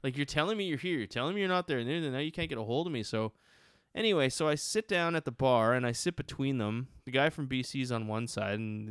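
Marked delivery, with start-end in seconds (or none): 0.0-3.0 exasperated. Retold or imitated. Retold exasperation at his friends.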